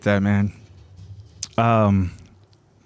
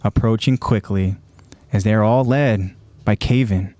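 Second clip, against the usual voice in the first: measured, dramatic recap narration; story narration; 4 semitones lower than usual. A narrator's reading. Host recaps a violent anime scene for listeners, dramatic narration. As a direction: narrate it slowly in phrases with suspenseful pauses.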